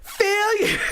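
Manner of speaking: put-on high, stretched kid voice; milk the word like a proud kid. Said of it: "wait for it".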